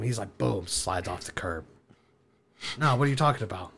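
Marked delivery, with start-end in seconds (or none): 2.8-3.8 laughing shout. Retold or imitated. Panicked laughing shout in car.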